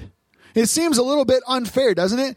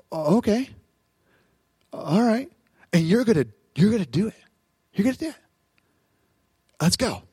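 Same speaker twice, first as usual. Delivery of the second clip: calm encouragement; faster than usual. Acted. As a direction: gently coax the students along. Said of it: "that's the tone here".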